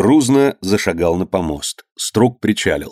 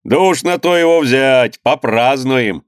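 raised-pitch cheer, stretched at the end; merry agreement; 4 semitones higher, slower than usual. Acted. Crowd expects a celebration, merry cry. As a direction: join in the glee.

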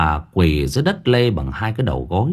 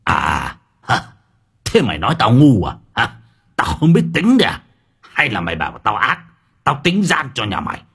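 angry scolding. Acted. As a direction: jeer at the old woman, sneering. Official berates beaten old woman.

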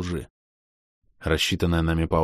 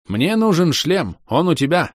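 higher, slower, louder proclamation; proclaiming; 10 semitones higher, 5 dB louder than usual. Acted. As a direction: declare it grandly, slowly. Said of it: "провозгласил Шир". (громко и торжественно провозглашает)

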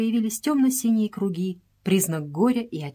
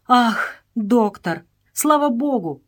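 relieved, louder cry of welcome; joyful exclamation; 5 semitones higher, 5 dB louder, slower than usual. A narrator's reading. Stop greets the arriving doctor with a joyful, louder cry. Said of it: "с радостью воскликнул Стоп".

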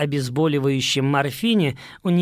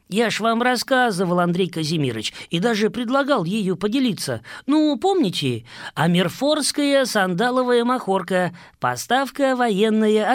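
higher, wheedling prisoner; whiny prisoner voice; 4 semitones higher than usual. Acted. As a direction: coax the captain, a bit pitiful. Prisoner pleads with captain.

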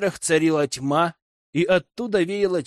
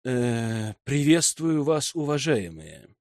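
a hesitant echo of lofty greeting; hesitant mock-solemn greeting; slower than usual. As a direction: copy the pompous style, a bit unsure. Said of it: "в разговоре с неписями пафоса много не бывает".

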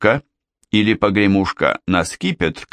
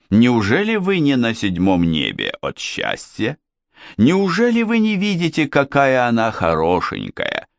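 lightly voiced proud king. King praising his daughter.

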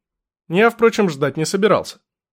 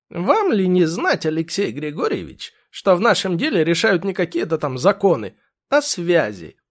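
smug lawyer; 2 semitones higher than usual. Acted. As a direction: lecture him like a smug fixer. Lawyer lectures on connections.

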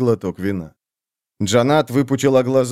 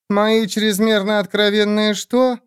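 indignant; 7 semitones higher, slower than usual. Acted. Indignant outraged question.

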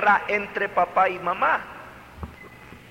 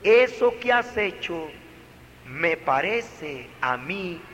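calm correction. Shown as a demonstration. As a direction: talk it through calmly with the child. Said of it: "No, no, no, cálmate".

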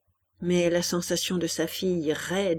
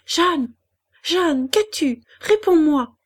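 high, urgent mother's call; alarmed calling; 8 semitones higher, 6 dB louder, slower than usual. Acted. Mother calls to unresponsive child. (appel inquiet et pressant)

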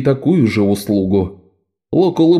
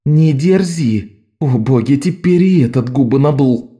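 higher exasperated exclaim; Bet exclaiming; 4 semitones higher than usual. A narrator's reading. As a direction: scold the sulky boy. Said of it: "воскликнула Бет".

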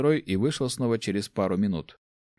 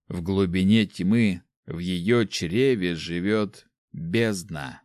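ominous narration; much slower than usual. A narrator's reading. Narrator opening a dark tale, slow and ominous. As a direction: draw the listener into the dark, slowly.

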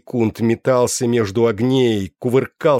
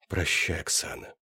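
тихий прощальный шёпот; шепчет, прощаясь навсегда; шёпотом; 3 semitones lower, 9 dB quieter than usual. Acted. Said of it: "прошептал я". (прощальный шёпот)

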